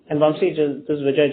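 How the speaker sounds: ordinary talk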